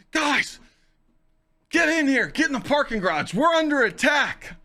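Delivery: high-pitched, urgent yell of warning; mock alarmed shout. Guard warning passers-by of an attack, mock alarmed shout. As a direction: call out like a frantic guard, hammed up.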